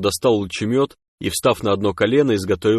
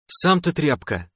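higher, slow, hurt retort; offended snort; 6 semitones higher, slower than usual. A narrator's reading. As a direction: throw it back, offended. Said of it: "обиженно фыркнул Тионг". (обиженно, высоким голосом)

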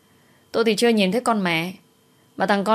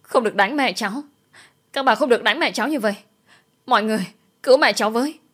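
put-on child's plea, higher and fast; pitiful crying child; 5 semitones higher, faster than usual. Little boy begging women to stop beating his mother, hint of crying. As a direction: beg them to stop hitting mum. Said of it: "gào thét thảm thiết".

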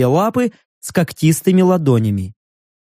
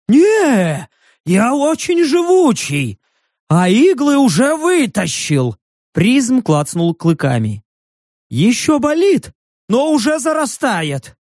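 high creature vouching; 6 semitones higher than usual. A narrator's reading. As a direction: vouch for your rude bear, eager beast. Creature boasting toughness.

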